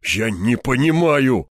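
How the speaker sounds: frightened colonel stammering. Acted. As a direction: stutter in fear. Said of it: "заикаясь, ответил Верёвкин".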